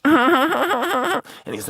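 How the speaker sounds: laughing through the words. Real, not acted. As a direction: break into a laugh. Laughing at the memory.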